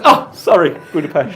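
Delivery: put-on the TikTok guy saying Budapest with a Hungarian accent; mock Hungarian accent. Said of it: "He goes".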